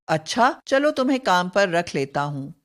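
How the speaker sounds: quick, offhand approval; agreeing. Shown as a demonstration. Teacher demoing agreement, fast offhand assent. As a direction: hire them briskly. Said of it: "स्वीकृति या सहमति सूचक".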